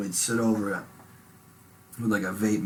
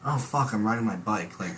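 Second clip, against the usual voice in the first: stoned wonder; 3 semitones higher than usual. Retold or imitated. Retelling high thoughts on bike.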